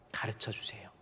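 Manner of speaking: 가르쳐 주세요 whispered very softly; hushed 가르쳐 주세요. Shown as a demonstration. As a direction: breathe 가르쳐 주세요 without voice. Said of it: "성령은 우리를 가르치십니다".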